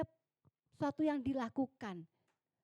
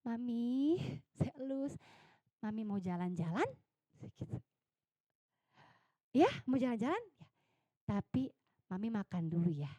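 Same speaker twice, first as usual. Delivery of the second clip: tender coaxing; 3 semitones lower, 4 dB quieter than usual. Retold or imitated. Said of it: "saya bilang".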